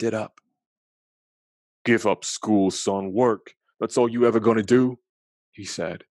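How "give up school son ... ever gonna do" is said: louder, fast harsh order; stern man. Acted. Man orders the boy to quit school and work, loud harsh voice.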